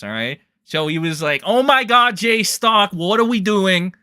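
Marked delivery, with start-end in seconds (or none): 1.4-3.9 higher and louder, gushing mock Diorio. Diorio voiced pleading with J-Stock, gushing. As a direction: ham up a giddy schemer. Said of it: "That's my Diorio voice".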